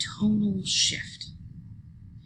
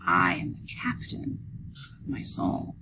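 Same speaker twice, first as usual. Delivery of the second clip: I rises and is leaned on in I am the captain; I pressed as the key word; stress on I; 14 semitones lower than usual. Shown as a demonstration. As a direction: hit I to show the poem's emphasis. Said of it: "I am master seem to be emphasized".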